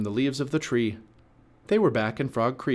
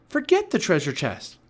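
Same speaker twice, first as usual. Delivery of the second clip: raised, high urgent voice; Annie insisting; 7 semitones higher, 4 dB louder than usual. A narrator's reading. Girl urging the boy to leave the treasure, insistent. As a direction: dismiss it firmly, pitched up. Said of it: "said Annie".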